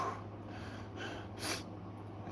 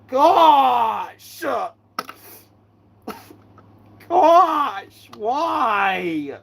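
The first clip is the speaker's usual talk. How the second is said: exasperated cry; 4 semitones higher, much slower than usual. Acted. Exasperated outburst.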